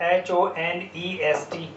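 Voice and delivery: slow letter-by-letter spelling; teacher spelling it slowly; spelled out slowly. Shown as a demonstration. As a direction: spell each letter out deliberately. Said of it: "spelling letters slowly".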